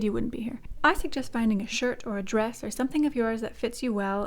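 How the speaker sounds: duidelijke instructiestem; tutorial voice-over. Acted. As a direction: leg het stap voor stap uit. Ingesproken naai-uitleg.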